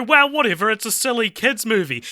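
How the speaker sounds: high, breezy brush-off; imagined critic scoffing; dismissive mock voice. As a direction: wave it away like a skeptic. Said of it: "you might go".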